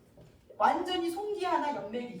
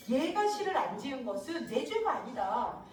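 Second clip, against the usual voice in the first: protesting. Acted. Concubine protesting her innocence to her lord, mild protest. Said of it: "라고 이제 항변하는 거지".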